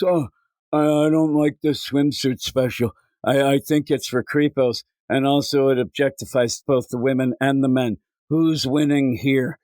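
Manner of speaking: a hint of a sneering Twitter user; whiny Twitter critic. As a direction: parody a prissy online critic. Mocking a Twitter complainer.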